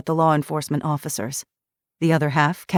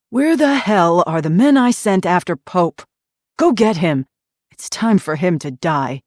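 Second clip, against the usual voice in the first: loud, angry demand; angry orders; 2 semitones higher, 5 dB louder than usual. Acted. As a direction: bark the orders furiously. Villain barking orders.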